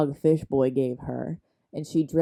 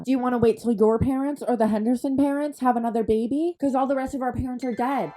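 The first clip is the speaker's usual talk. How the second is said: fed-up rant; 3 semitones higher, faster than usual. Retold or imitated. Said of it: "she's had enough of it".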